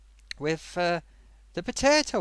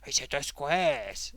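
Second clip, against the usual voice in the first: imitating Potato. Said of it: "You know the way he says it".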